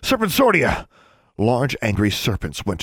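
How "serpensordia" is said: high, forceful incantation; hissed spell. A narrator's reading. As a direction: cast the spell with a raised, urgent voice. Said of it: "he began conjuring snakes by hissing".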